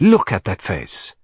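slow, insistent command; demanding. Acted. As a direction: press her to look, word by word. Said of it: "he demanded".

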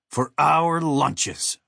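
hesitant, stretched-out offer; guessing. A narrator's reading. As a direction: draw it out as a tentative guess. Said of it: "Bomb guessed".

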